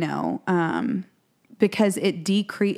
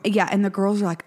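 whisper; faster than usual. Real, not acted. Whispered aside in story.

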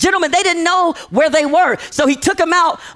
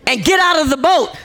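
commander's yell; 4 semitones higher than usual. Retold or imitated. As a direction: bark the order across a storm-tossed boat. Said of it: "he yells out".

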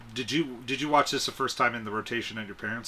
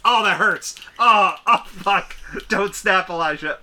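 loud, high yelps of pain; 6 semitones higher, 7 dB louder, slower than usual. Real, not acted. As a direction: cry out as it hurts. Fingers hurt from snapping.

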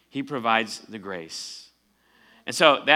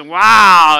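impressed wow; 6 semitones higher, 16 dB louder than usual. Retold or imitated. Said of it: "and she goes".

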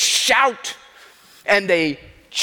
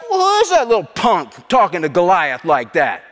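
acted scornful disbelief; scornful taunt; 3 dB louder than usual. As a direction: jeer like an offended rival crowd.

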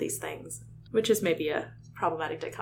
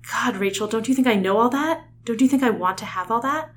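higher, pressing questions, acted out; exasperated plea; 5 semitones higher, 4 dB louder than usual. Tobias protesting to Rachel that he knows, exasperated plea. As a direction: plead in frustration with rising ends.

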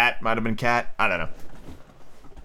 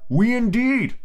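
high, outraged mouse voice; shrill little mouse protest; indignant mouse cry; 11 semitones higher, much slower than usual. A narrator's reading. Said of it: "cried the mouse, who was trembling".

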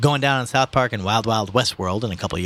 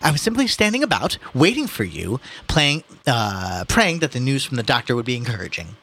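haughty voice; 3 semitones higher than usual. Acted. Ignatius voiced in reading.

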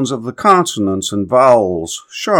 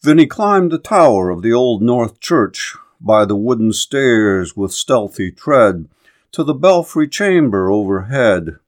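measured, rhythmic verse narration; poem recitation. Acted. Narrator telling of Paul Revere's midnight ride, poem recitation. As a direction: recite the ballad with a steady galloping metre.

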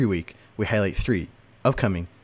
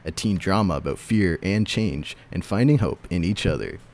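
movie trailer voice. Shown as a demonstration. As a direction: read it like a movie trailer announcer. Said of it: "I do a movie theater trailer voice".

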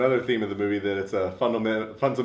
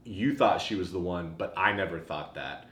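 preaching sister; 4 semitones lower, 3 dB quieter than usual. Retold or imitated. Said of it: "she's preaching".

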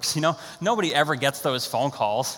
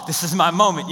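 hyped. Retold or imitated. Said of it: "I'm starting to get hyped up".

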